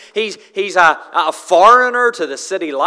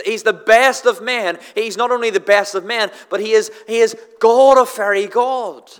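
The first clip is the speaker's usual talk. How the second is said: lightly acted fervour, raised pitch, stumbling repeats; fervent declaration; 4 semitones higher, 3 dB louder than usual. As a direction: proclaim it eagerly as a proud disciple. Imagined Peter boldly confessing Jesus.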